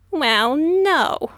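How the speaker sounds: raspy dragon voice; low raspy voice. A narrator's reading. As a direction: rasp it like a creature. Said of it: "in a low, raspy voice".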